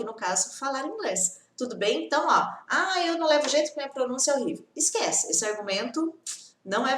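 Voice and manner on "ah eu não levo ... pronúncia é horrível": fast complaining student. Retold or imitated.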